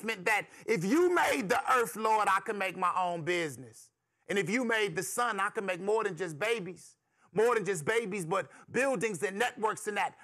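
impassioned poetic testimony to the Lord; young man's prayer. Acted. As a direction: question God in a rolling, rhythmic rush. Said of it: "And he says".

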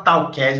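"talked" as two syllables, tal-KED, Brazilian-style; wrong ED syllable. Shown as a demonstration. Teacher warns learners off saying "talked" as tau-kedj. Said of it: "isso não existe em inglês não".

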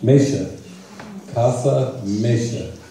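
MEISHA said "MAY-sha", slowly and carefully; Spanish name pronunciation. Shown as a demonstration. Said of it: "it pronounces Meisha".

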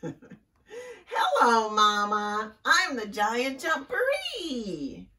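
put-on high, loud little-kid voice, slowing at the end; baby frog voice. Baby Frog revealed to Mama, high cheeky greeting. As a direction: pipe up proudly as the little one.

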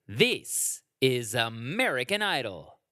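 drawn-out announcer intro; slow showbiz announcer delivery; Ryan Seacrest announcer read. Retold or imitated. Imitating the host's slow TV intro. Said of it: "he would always say it like that".

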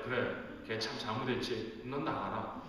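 mock dismissive dad. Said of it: "제가 그럴까요?".

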